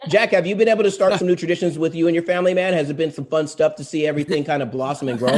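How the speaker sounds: rushed, quick question; fast. Real, not acted. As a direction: rattle it off fast. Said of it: "like, really fast".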